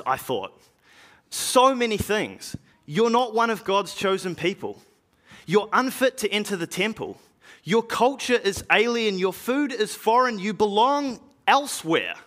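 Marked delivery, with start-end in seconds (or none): 1.3-12.2 raised pitch, listing each reason against him; stern objection. Acted. Apostle recalls the rules barring the foreigner, sternly objecting. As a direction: reel off the objections as a rejection. Recites objections to the man's baptism.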